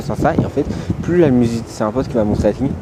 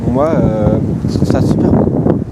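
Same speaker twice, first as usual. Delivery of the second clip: excited; 8 dB louder, slower than usual. Real, not acted. Excited about big cars.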